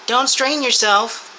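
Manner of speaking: lightly voiced Monica calling out; called out after. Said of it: "Monica calls out after me".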